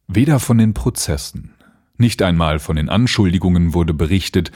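calm measured storytelling; story narration. Acted. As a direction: read it like an audiobook. Reads Lovecraft aloud. (ruhige Vorlesestimme)

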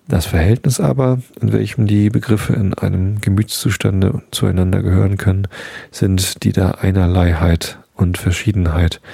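measured philosophical text reading; formal reading. Acted. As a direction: read the dense text steadily aloud. Reads Kant aloud.

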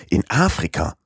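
mild disbelief, AFRIKA leaned on; incredulous repeat. Acted. Passepartout repeats Fix's answer, mildly incredulous. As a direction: echo it as if you can't believe it. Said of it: "wiederholte Passepartout".

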